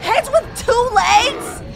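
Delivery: high, drawn-out disbelief; shocked exclaiming. Real, not acted. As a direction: cry out slowly in amazement. Walking heads appear.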